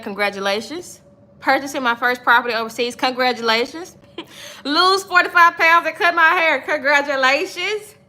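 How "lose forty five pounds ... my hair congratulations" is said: laughing. Real, not acted. Laughing while reading a viewer comment.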